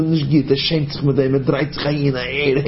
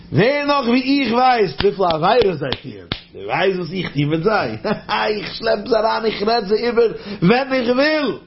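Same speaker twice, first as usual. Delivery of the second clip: higher, boastful gloating voice of the accuser; taunting accuser; 3 semitones higher than usual. Acted. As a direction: crow over the angel like a smug prosecutor. Samach Mem boasts to angel Michul.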